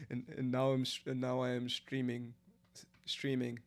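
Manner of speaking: attempted Indian accent, stumbling. Shown as a demonstration. Streamer recovering from giggles to finish the demo in Indian accent. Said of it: "your Indian accent does not sound Indian".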